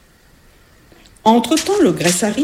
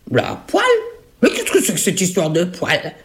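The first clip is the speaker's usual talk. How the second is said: annoyed fake grandmother. Ogress as grandmother dodges.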